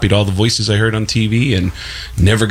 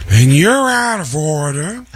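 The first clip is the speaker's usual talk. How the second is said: slow, building, much higher Pacino yell; Al Pacino shouting; 10 semitones higher, slower than usual. Retold or imitated. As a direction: escalate into a full Pacino rant. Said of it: "me as Al Pacino".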